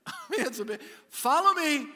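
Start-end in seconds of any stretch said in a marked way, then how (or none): 1.1-1.9 loud slow command "Follow me". Retold or imitated. Paul booming to the church, slow and loud. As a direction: boom it out as Paul. Paul's bold claim repeated.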